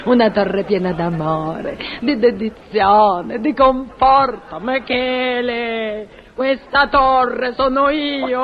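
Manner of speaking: slow, swooning love speech; amorous declaration. Acted. Portiera offering herself to the engineer, slow amorous declaration. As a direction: draw out each phrase with melodramatic devotion.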